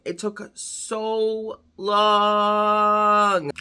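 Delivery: very slow, exasperated elongation; drawn-out complaint. Real, not acted. Dragged out for comic complaint.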